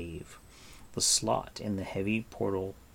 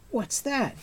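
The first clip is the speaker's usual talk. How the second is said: crying out. A narrator's reading. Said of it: "he cried".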